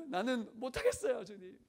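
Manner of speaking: high-pitched mock pleading; acted-out cry of giving up; imitated desperate prayer. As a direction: plead loudly with God as if at wit's end. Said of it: "이렇게 맨날 강대상 올라가서 기도했다는 거예요".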